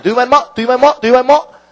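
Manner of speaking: "뭐" lifted on a rising question tune. Shown as a demonstration. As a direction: end each "Do you mind 뭐?" on a rising "뭐". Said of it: "뭐가 탁 튀어나와야 돼요". ("뭐"를 올려서 묻듯이)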